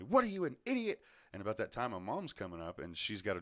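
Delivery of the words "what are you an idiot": high, loud mock scolding; incredulous, raised-voice telling-off; retold yelling teacher. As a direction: yell like an exasperated teacher. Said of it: "she starts yelling at me".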